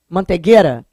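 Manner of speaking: "Mantegueira" as "mantegêra"; pronúncia carioca sem ditongo. Shown as a demonstration. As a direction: drop both I glides in "Mantegueira". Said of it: "O carioca não fala aquele ditongo". ("Mantegueira" dito "mantegêra", sem nenhum I)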